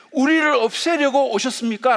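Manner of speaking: high-pitched mock cry of protest; retold outcry. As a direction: cry out as the possessed man confronting Jesus. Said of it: "라고 소리쳤어요".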